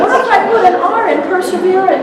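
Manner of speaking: high, anxious mock fretting; worried reporter. Court reporter fretting over tiny errors, high mock panic. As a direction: whine the worries of a nervous reporter. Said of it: "You're so worried about".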